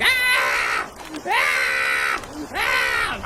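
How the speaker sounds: repeated acted screams of panic; imitated panicked scream. Boy running home through a storm, mock panicked screaming. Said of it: "I'm getting more panicky and I'm screaming".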